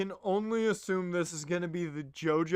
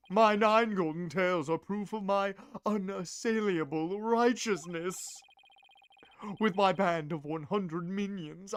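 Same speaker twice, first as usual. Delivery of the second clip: grandiose hero's proclamation; lightly flamboyant wrestler hero. Acted. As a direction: proclaim it with showy pomp. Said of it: "do it in a very flamboyant voice".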